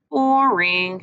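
teasing sing-song; sister's taunting sing-song. Acted. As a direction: lilt it to mock him. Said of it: "she said in a sing-song voice".

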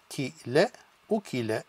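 "ki, le" said apart, then "ukile" blended; syllable by syllable. Shown as a demonstration. Teacher sounding out a word for students. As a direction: split "ki" and "le", then run together as "ukile". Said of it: "is u".

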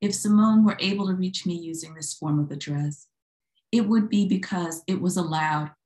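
measured poem reading, firm line openings. Acted. Poet reads Open Letter to a live audience, poem reading. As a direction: read it out in deliberate, separated phrases.

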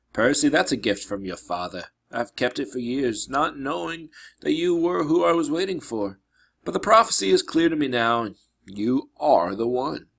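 lightly voiced solemn teacher; earnest mentor.

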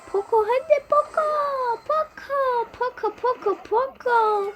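high, urgent call, Poco hadi Poco. Real, not acted. Gamer calling teammate Poco for cover, high urgent call. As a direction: yell for the healer to come save you.

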